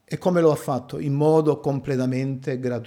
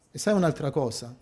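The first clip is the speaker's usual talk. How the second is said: fast, much softer confiding echo; softer repeat; 6 dB quieter, faster than usual. Shown as a demonstration. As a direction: drop it to a near-confidential echo.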